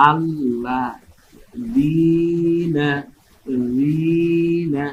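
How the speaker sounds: আল্লাযীনা broken into syllables, the ী held long; টেনে পড়া. Shown as a demonstration. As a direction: draw out the long ī in আল্লাযীনা and রিনা. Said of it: "এক আলিফ টেনে বলবো". (এক আলিফ টেনে ধীরে উচ্চারণ)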